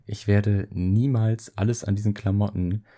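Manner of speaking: choppy cutting-out call audio; connection dropping out. Real, not acted. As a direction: voice breaking up over a bad line. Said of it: "du warst gerade weg, ich hab's nicht gehört".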